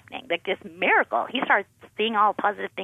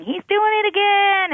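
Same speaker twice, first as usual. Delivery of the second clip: put-on high, loud child's call of alarm; tattling big brother; 14 semitones higher, 6 dB louder than usual. Older son alerting parents, loud and high. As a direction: sing it out like a tattling kid.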